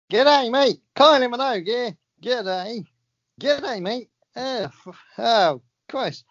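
high, hammed-up Australian accent; a singer. Host introducing a singer for a few words, mock Australian. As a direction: greet in a put-on Aussie voice. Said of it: "here comes Kylie Minogue".

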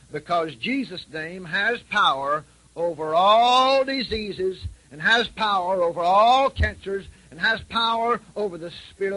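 slow, loud, high proclamation; preaching at full force. Real, not acted. Preacher proclaiming Jesus' power over cancer, loud and slow. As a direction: build it to a loud climax.

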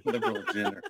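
"agenda" pronounced "agender"; mock-accent "agenda" with a hard final R; added final R. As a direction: echo the joke with "agenda" ending in ER. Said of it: "A's at the end are like E Rs".

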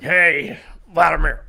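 lightly put-on greeting in character; Dennis Rodman. Comedian imagining Rodman greeting Putin in Russia, light impression. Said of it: "that's how he talks".

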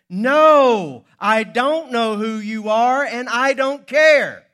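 loud, high, slow furious shout; professor's full-volume angry retort. Acted. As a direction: roar back, dragging out each word. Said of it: "angry himself".

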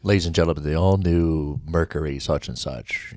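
plush commercial announcer pitch. Shown as a demonstration. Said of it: "you know, like that".

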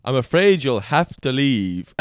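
slow, squeaky security guard; imitating a tiny squeaky guard. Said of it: "it's a squeaky voice team".

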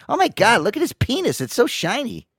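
lightly voiced brother marveling; brother's voice. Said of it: "he's like".

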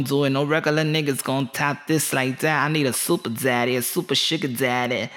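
put-on light Puerto Rican accent as a sassy wife; lightly put-on Puerto Rican accent, dismissive; ghetto Puerto Rican accent. Wife rejects regular husband for Superman, mock Puerto Rican accent. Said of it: "give it the ghetto Puerto Rican accent".

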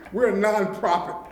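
"nonprofit" given deliberate emphasis; stress on nonprofit. Real, not acted. Director reminds county partners of the organisation's status, stressing "nonprofit". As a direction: lean on the word "nonprofit". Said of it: "I want to stress that word".

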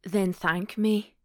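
slow Scottish hero's line; lightly Scottish, drawn-out invitation; Scottish accent. Acted. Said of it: "Scottish accents are so sexy".

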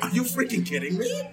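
delighted disbelief at the twist; excited retold outburst. Friend explains his theater reaction with excited disbelief. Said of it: "I could have been like".

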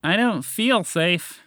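high, slow call upward; shouting up. Acted. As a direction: shout it up from far below. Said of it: "James shouted up".

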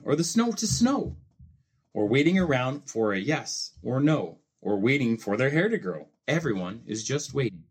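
lively rhyming storybook reading with playful swings; reading to children. A narrator's reading. Dad reading a Seuss book to his child, lively storybook voice. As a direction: read it like a bedtime picture book, bouncing the rhymes.

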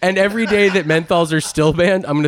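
high-pitched stunt announcer impression; Mister Beast. Imitating a YouTuber pledging money to legislators, hammed-up announcement. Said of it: "Mister Beast is like".

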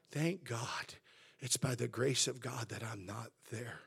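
softly spoken inward gratitude; private thanks to God. Acted. Preacher modelling humble thanks within oneself, quietly. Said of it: "it's okay in yourself to say".

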